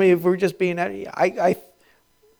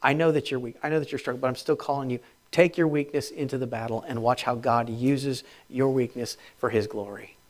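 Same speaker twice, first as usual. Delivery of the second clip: tender; 3 semitones lower, 6 dB quieter than usual. Retold or imitated. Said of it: "He says".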